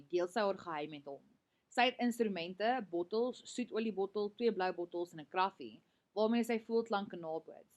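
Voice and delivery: clear, lightly voiced read-aloud of the novel's dialogue; reading a story aloud. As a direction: read the passage to the class. Reads passage from novel.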